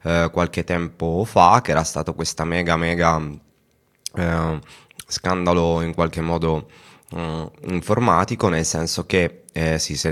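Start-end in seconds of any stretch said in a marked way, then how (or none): 1.6-10.1 talking with a mouthful of chips; words round a bite of crisps; eating chips. Real, not acted. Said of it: "se pensate che io stia mangiando".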